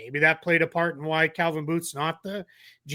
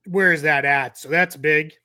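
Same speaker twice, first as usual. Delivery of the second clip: hiccups; 4 dB louder than usual. Real, not acted. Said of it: "I have the hiccups".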